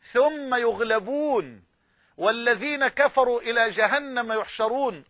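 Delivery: تلاوة خاشعة متأنية; Quran recitation. Shown as a demonstration. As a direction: recite the verse with solemn care. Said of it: "خلي بالك من الآية الجميلة أوي دي".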